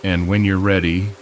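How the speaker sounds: calm guided-meditation delivery with long pauses; hypnosis induction. Acted. Hypnotist to listener settling down to relax, soothing guided hypnosis. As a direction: ease them into rest, phrase by unhurried phrase.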